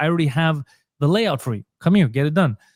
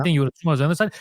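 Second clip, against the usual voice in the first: ordinary talk, nothing marked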